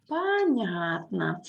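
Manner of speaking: "Понятно" said slowly with the middle syllable stressed; measured, careful "Понятно"; slow model pronunciation. Shown as a demonstration. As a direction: say "Понятно" slowly for learners to copy. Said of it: "stress is in the middle".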